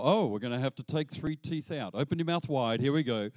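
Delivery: lightly voiced dentist getting to work. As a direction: play the cheerful dentist about to pull teeth. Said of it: "dentist quote".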